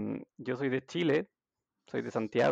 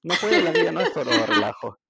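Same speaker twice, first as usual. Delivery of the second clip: retold scolding; 6 dB louder than usual. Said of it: "me encuentro un día con ella en el parque y me dice".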